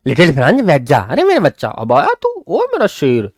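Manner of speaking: kindly teacher. Retold or imitated. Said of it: "बड़े प्यार से बोल रहे हैं".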